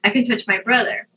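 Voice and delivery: high-pitched anxious listing, acted out; mock panicky self-talk. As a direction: list your senses in a high, fretful voice. Retelling her grounding exercise mid-panic.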